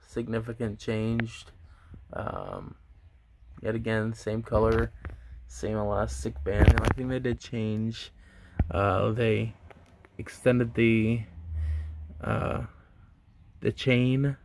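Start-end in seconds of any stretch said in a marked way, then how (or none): 5.5-14.4 talking with finger in mouth; finger pulling lip. Real, not acted. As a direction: lip stretched aside by finger. Seen 0: Close-up: a finger hooks the mouth corner to show the braces while talking.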